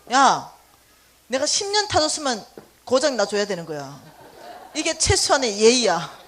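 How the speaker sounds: loud scolding of a car; hammed-up berating of the old Grandeur; mock fury, ending with a laugh; retold angry scolding. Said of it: "무지 화가 나더라고요".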